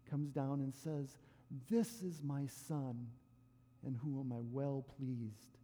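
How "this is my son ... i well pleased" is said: slow, low, solemn proclamation; God speaking from heaven, slow and grave. Retold or imitated.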